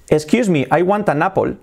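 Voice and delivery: English with Spanish vowels, every word separate; careful Spanish-accented English, "apple" as "AH-pol"; learner's Spanish accent. Shown as a demonstration. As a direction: say it like a Spanish beginner. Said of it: "si estás acostumbrado a decir".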